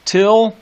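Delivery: "Till" hit high and loud; stressed till. Shown as a demonstration. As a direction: punch "Till" as a strong opening beat. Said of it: "till into the high dome".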